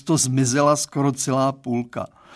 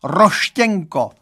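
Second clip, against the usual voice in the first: 1 lamenting; 5 semitones higher, 7 dB louder, slower than usual. Acted. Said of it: "zanaříkal".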